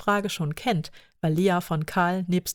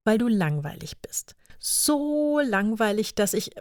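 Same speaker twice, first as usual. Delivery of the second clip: mock drawn-out teasing; 4 semitones higher than usual. Karl teasing Paula.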